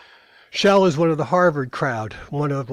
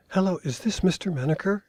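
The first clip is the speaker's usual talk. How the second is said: miniature voice; 5 semitones higher than usual. Retold or imitated. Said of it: "a miniature voice says".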